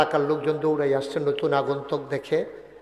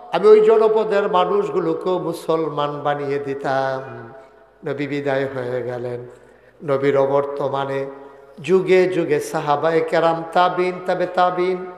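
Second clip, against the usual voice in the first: melodic preaching. Real, not acted. Preacher tracing the faith after the Prophet, measured chant. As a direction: draw out the phrase endings.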